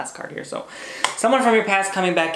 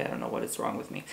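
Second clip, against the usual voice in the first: whispered aside; 13 dB quieter, faster than usual. Real, not acted. Embarrassed aside to viewers.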